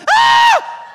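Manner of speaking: a sudden very high, very loud shriek of fright; terrified scream. Retold or imitated. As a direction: scream like something grabbed you in the dark. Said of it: "but I said".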